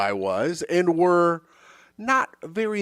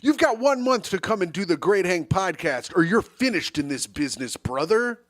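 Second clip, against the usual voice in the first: mock ultimatum; 3 semitones higher than usual. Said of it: "you're really selling it".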